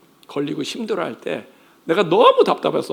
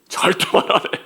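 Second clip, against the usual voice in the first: mock secretive whisper; 3 semitones higher, 4 dB louder than usual. Child refusing to confess.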